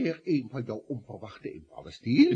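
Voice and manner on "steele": name snapped out high and loud; reproachful boss calling him out; sharp scolding. Acted. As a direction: bark the name in exasperation.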